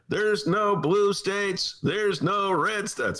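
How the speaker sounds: slow oratory with long pauses; Obama impression. Host doing Obama's convention speech, slow. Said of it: "That's my Obama imitation".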